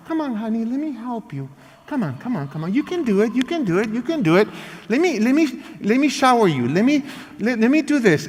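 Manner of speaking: soft, sweet coaxing; baby them with gentle encouragement; coaxing kind parent. Acted.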